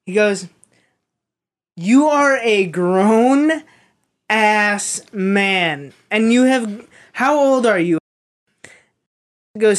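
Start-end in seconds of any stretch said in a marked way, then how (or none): 1.8-8.0 louder, slower, half-acted scolding; a boss tearing into a grown kid; retold angry rant. Coach scolding a seventeen-year-old for not tying shoes, louder and slower. Mike chewing out teen over shoes.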